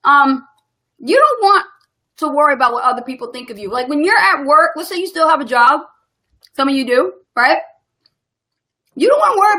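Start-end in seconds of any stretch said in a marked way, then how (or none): 1.0-5.1 talking round a piece of candy; candy in mouth while speaking; mouth full. Real, not acted. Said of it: "I had to put a piece of candy in my mouth".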